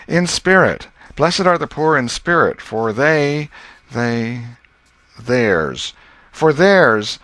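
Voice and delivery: high and loud, stuck on words; a boy grinding through a half-learned lesson; schoolboy reciting verses. Acted. Tom reciting the Beatitudes to Mary, high and struggling.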